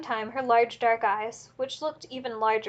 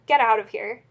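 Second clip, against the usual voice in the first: angry shout; 7 dB louder than usual. A narrator's reading. Ordering him out.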